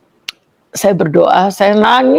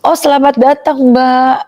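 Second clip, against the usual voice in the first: lightly acted greeting, pitched higher; friendly welcome; 4 semitones higher than usual. Church worker welcomes the newcomer, friendly.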